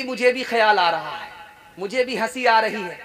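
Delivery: a light laugh through the mother's words; mild laughter. Acted. Mother to daughter, amused, lightly laughing. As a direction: let a small chuckle slip in.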